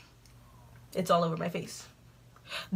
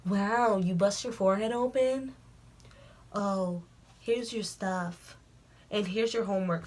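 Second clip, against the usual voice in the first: nosy classmate; 4 dB quieter, slower than usual. Retold or imitated. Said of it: "really nosy".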